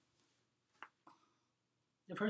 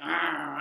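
dog growl; 3 semitones lower, 5 dB louder than usual. Retold or imitated. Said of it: "He's like".

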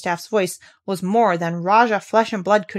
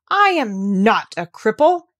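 slow, louder furious denial; boy furious at being called a cripple; furious cry; 5 dB louder, slower than usual. Acted. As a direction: spit it back in outrage. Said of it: "he cried out furiously".

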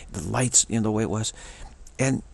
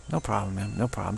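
soft, slightly lowered, easy delivery; easygoing reassurance; 4 dB quieter than usual. Shown as a demonstration. Driver showing how to excuse another, mild easygoing reassurance. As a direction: wave it off gently with a nod. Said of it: "just smile and nod".

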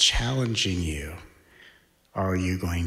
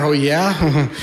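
higher, louder sarcastic challenge; mock combative; 6 semitones higher, 6 dB louder than usual. Baited on social media, snapping back. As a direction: bristle back at them.

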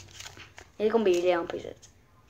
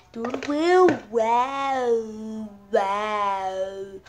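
put-on baby talk; much slower than usual. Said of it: "baby talk".

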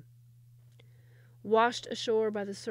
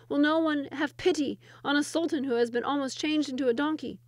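louder, higher despairing moan; 6 semitones higher, 6 dB louder than usual. Acted. Trapped Sultan moans from the wheel, loud and despairing. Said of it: "he moaned daily".

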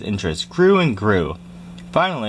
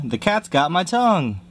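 squealing; 6 semitones higher than usual. Acted. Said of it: "squealed the butcher".

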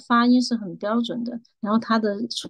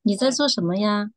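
gentle Mandarin. Shown as a demonstration. Contrasting with the Sichuan line, gentle Mandarin. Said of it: "我用普通话温柔一点说".

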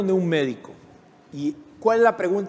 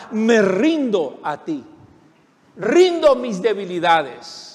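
slow surrender; 4 dB louder, slower than usual. Acted. Slow surrender prayer after shouting.

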